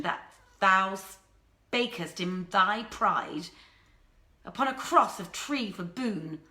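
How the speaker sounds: stately verse read as a menacing warning; princess's angry letter, read as measured verse; threatening poem recitation. A narrator's reading. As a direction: recite the couplets like a royal threat.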